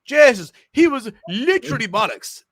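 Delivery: put-on strong Irish accent, high and loud; broad Irish accent. Irish host imitating how he talks at home, broad Irish accent. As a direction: let the full Irish come out like at home. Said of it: "at home, I'd be like".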